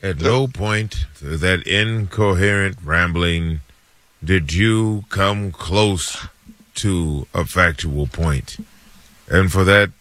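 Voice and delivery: slow, deliberate verdict with long pauses; movie-judge rendition. Acted. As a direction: pronounce judgment word by heavy word. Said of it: "It's a good rendition".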